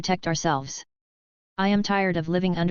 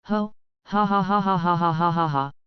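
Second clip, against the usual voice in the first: a long, sinister villain cackle; villain laugh. Acted. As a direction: laugh like a gloating traitor. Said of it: "Why is he laughing like that?".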